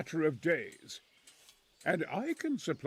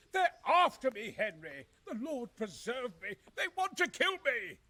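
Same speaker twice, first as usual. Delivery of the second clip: frightened; 6 semitones higher than usual. Acted. Frightened man fears assassins.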